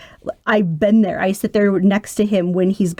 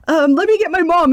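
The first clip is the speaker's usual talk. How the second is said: high, mildly panicked imitation of her daughter; pitched-up retold panic; mock panic; 10 semitones higher, 4 dB louder than usual. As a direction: imitate someone nervously calling for backup. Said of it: "she almost, like, panics".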